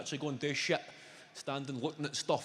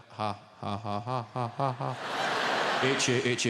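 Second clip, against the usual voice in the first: mock typed laugh; 5 semitones lower than usual. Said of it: "you need to reply to your mate".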